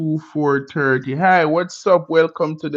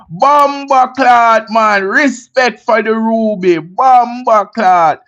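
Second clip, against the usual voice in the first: loud, high, drawn-out exclamation; excited shout-out; 6 semitones higher, 6 dB louder, slower than usual. Real, not acted. Streamer thanking a viewer for a Ruby, excited shouting. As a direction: shout your thanks with hyped-up respect.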